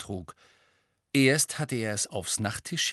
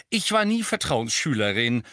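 cheerful Tonks; 4 dB louder than usual. Acted. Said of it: "gut gelaunt".

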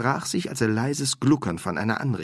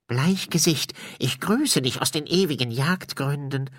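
higher, disembodied ghost greeting; higher put-on séance ghost; vibrating spirit voice; 7 semitones higher than usual. A narrator's reading. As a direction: intone it as a bodiless spirit. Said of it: "Eine körperlose Stimme vibrierte".

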